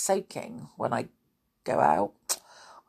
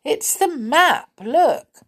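higher, excited shout; shouting loudly; 9 semitones higher, 4 dB louder, slower than usual. Acted. Pixie holds up the map to the others, excited shout. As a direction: call out the find, slow and high. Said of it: "shouted loudly".

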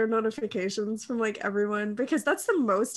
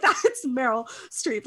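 laughing awe; slower than usual. Retold or imitated. Starstruck at Meryl Streep.

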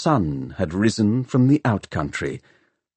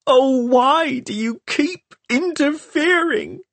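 put-on a furious girl screaming at the boy who interfered; screaming in anger. A narrator's reading. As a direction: fling every word at him in despair. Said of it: "screamed Hester".

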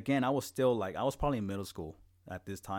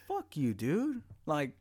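imagined defiance; 7 semitones higher, 3 dB louder, slower than usual. Retold or imitated. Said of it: "And I'm just like".

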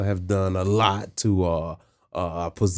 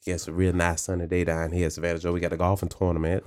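Southern accent; 2 semitones lower than usual. Shown as a demonstration. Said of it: "I can do a Southern accent".

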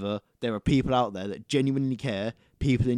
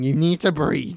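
loud emphatic; 5 semitones higher, 7 dB louder than usual. Real, not acted. Emphatic correction, joking.

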